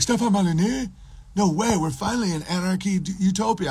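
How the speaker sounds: high, thrilled put-on voice; mocked excited libertarian. Captive thrilled about meeting his hero, mocked high excitement. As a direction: gush in a mock high voice.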